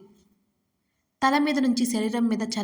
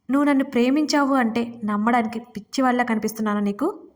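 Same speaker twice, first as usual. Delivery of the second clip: ordinary delivery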